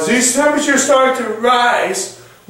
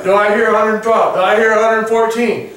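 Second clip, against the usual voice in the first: auctioneer voice. Pretend. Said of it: "I kinda sound like an auctioneer".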